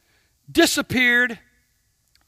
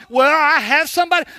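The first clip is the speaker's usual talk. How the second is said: quick, offhand answer, a little louder; God's easy reply; 4 semitones higher, 7 dB louder, faster than usual. Retold or imitated. God answering the lonely believer, quick and offhand. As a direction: toss it back like it's obvious. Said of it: "He said".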